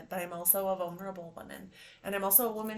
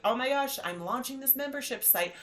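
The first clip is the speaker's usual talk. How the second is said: higher, louder flustered self-talk; overwhelmed; 6 semitones higher, 6 dB louder than usual. Retold or imitated. Picturing the huge website launch, overwhelmed. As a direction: act out getting swamped by the big picture. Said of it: "big picture that's overwhelming".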